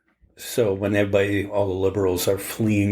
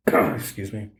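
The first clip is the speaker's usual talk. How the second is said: coughing, choking on beer; choking on a drink; 2 semitones lower, slower than usual. Real, not acted. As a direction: clear the throat between coughs. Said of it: "I'm choking".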